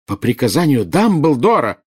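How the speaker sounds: indignant. A narrator's reading. Bellatrix throws Snape's words back at him, indignant. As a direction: repeat it back in outraged disbelief. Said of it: "возмущённо начала было Белатриса".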